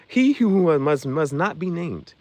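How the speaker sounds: slow, spooky Harry Potter quote; ominous Voldemort line. Retold or imitated. Quoting Harry Potter, slow ominous he who must not be named. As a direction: draw out the dread. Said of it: "when they look up Voldemort".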